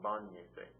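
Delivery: "Bañese" with the stress three syllables back, on BA; stress on first A. Shown as a demonstration. Teacher explaining the accent mark, "Bañese" stressed on BA. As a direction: lean on the BA of "Bañese". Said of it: "the stress is there".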